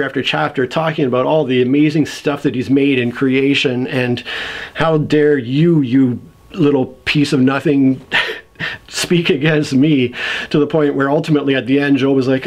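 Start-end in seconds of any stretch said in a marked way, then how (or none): 4.7-10.1 slow, measured mock indignation; understated divine scorn; pissed-off God. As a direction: drag out the scolding, lightly outraged. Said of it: "God is pissed".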